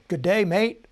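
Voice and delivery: put-on a light, playful Australian accent on the greeting. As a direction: toss off a friendly mock Australian hello. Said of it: "That's my best Australian".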